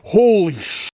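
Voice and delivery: high, loud shocked gasp. Real, not acted. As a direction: blurt it out in shock. Shocked discovery.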